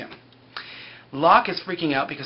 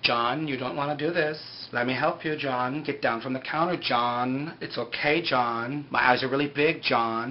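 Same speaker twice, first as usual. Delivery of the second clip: mock soothing plea; 3 semitones lower, slower than usual. The speaker talks John out of suicide.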